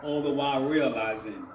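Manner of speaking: measured spoken-word delivery with pauses between phrases; spoken-word poem in rhythmic phrases; poetry recital. Acted. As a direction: perform the poem, lifting each refrain then letting the phrase fall. Reads his poem aloud.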